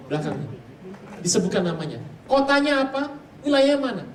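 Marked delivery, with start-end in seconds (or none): 2.3-4.0 high, loud probing questions; dukun's questions. Retold or imitated. Preacher voicing a shaman grilling his friend, loud and high.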